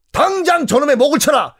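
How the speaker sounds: high, commanding order; king ordering the governor beheaded; royal command. Acted. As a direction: bark the execution order.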